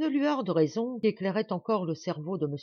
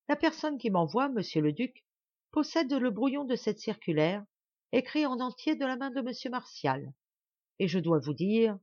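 lightly voiced heroine, higher-pitched; resolute young woman, insistent; 6 semitones higher than usual. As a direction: press the accusation on, undaunted. Plays Marianne addressing the duke. (jeune femme résolue, légèrement incarnée)

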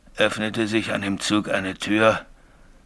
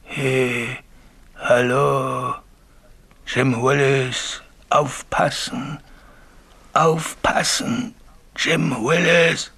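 slow, drawn-out, rising eerie call; ghostly call; 5 semitones higher, much slower than usual. Retold or imitated. Signalman imitates the ghost calling his name, eerie and slow. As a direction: call like a distant phantom, higher and higher.

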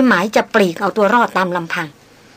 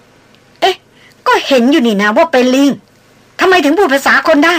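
much higher, louder feigned astonishment; mock surprise; 5 semitones higher, 4 dB louder than usual. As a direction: pretend to be amazed, teasing him. Mistress mock-surprised at hidden man. (แกล้งทำเป็นประหลาดใจ เสียงสูงและดัง)

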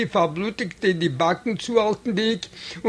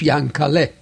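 ordinary delivery, nothing marked

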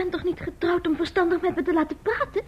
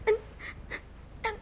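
tearful; 5 semitones higher, slower than usual. Acted. Ruzie, vrouw in tranen.

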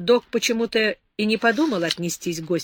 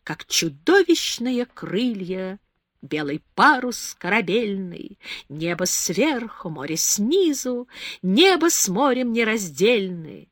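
recited softly; slower than usual. A narrator's reading. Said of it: "продекламировала вполголоса".

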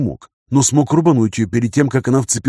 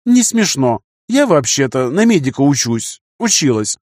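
put-on higher, huffy young woman; offended girl voice; 3 semitones higher than usual. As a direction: voice her huffy and hurt.

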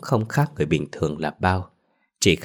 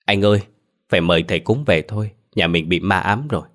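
sobbing wail. Acted. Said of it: "nức nở gào lên".

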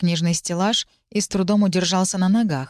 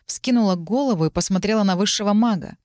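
usual speaking voice

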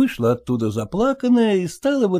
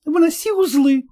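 higher, insistent order; wife to the cook, a raised command; shouting; 6 semitones higher than usual. Acted. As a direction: order the cook to carry it out now. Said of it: "крикнула".

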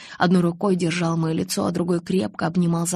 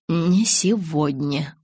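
slow "Не сегодня", weight on "не"; firm "не сегодня"; much slower than usual. A narrator's reading. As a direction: repeat it firmly and slowly. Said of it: "повторил он". (твёрдо и медленно, ударение на «не»)

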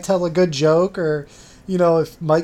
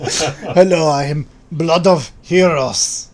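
slow, deliberate joke introduction; mock self-introduction; slower than usual. Co-host pretending to be the oddly named man, mock self-introduction. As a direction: introduce yourself slowly as a silly character.

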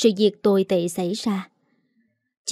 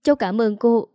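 joyful thanks; 3 semitones higher than usual. Acted. Young model thanks the older lady, overjoyed. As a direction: gush gratefully to her. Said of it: "vui mừng".

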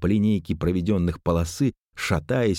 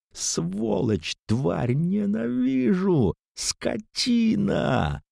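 high, slow, howling like a wild cat; howling fury; much slower than usual. A narrator's reading. Zhanna lunges at her cousin, howling like a wild cat. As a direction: wail the insults out long and high. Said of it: "завывая, как дикая кошка".

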